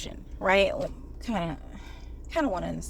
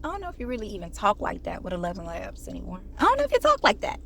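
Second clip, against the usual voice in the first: mock dater voice. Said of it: "You say".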